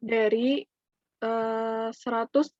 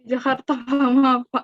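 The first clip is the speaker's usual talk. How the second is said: breaking up space radio; 6 dB louder than usual. Real, not acted. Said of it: "Kok sinyalnya putus-putus ya?".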